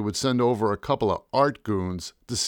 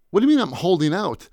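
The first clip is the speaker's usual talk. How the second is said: higher, louder panicked outburst; 7 semitones higher, 4 dB louder, faster than usual. Acted. Painter with paint dumped on him, panicked. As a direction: blurt it out in panic. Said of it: "I said in a panic".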